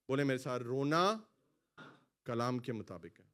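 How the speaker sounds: usual speaking voice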